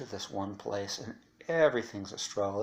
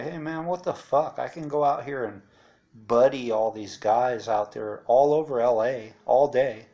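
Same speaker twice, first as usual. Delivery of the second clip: exasperated complaint; 5 dB louder than usual. Retold or imitated. Griping to the top staff about running rules, raised voice. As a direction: protest loudly at the bosses.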